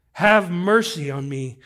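loud, drawn-out plea; slow, impassioned cry; crying out for mercy. Acted. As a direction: stretch out a slow, pleading call.

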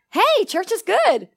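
slow, high, self-satisfied churchgoer; mock my old self, pleased and slow; smug old self. Preacher mocking his old churchgoing self, slow and smug. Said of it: "Gene watched me say that to him".

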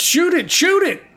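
urgent, high-pitched order to fire; acted panicky high yelp; called-out command. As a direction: cry it out to the group. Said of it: "that you spoke that out loud".

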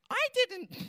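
a high squeak of the wife's voice; starts to mimic the wife high, then stops; wife's voice, cut short. To the crowd, briefly mimicking his wife, high squeak. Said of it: "I won't do her voice".

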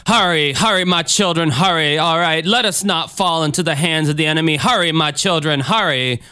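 lightly voiced urging preacher; singsong call to his flock; Jim Jones. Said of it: "And then you got Jim Jones".

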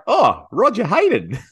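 high, thrilled shout of recognition; excited. Retold or imitated. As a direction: gasp out his name, starstruck. Excited recognition of footy legend.

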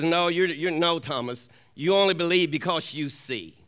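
low, quiet correction; understated low rebuke to a doubter; lightly voiced God. God gently correcting Thomas, acted.

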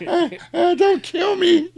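high, laughing, squealing plea; high wheedling laughing voice; begging whine. Retold or imitated. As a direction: plead frantically, hammed up.

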